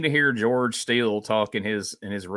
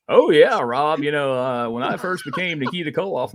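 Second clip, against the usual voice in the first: a hint of a smooth radio DJ, high and loud on the opening; 5 semitones higher, 4 dB louder than usual. Nikita Koloff greeting Rob, light mock radio DJ voice. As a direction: lightly mimic a slick DJ greeting. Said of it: "He's got a radio D J voice".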